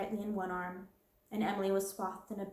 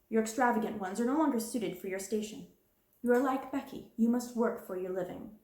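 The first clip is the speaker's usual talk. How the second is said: louder, cold and commanding; domineering headmistress; 3 semitones higher, 3 dB louder than usual. Acted. Cold domineering decree. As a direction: headmistress telling the princess she is no longer one, domineering. Headmistress strips Sarah's privileges.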